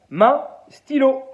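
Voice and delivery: slow, drawn-out order to the hand; slow robotic command voice. Acted. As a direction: spell each word out for the machine. Man commands his voice-controlled hand.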